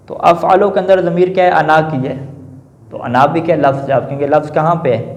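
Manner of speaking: normal talking voice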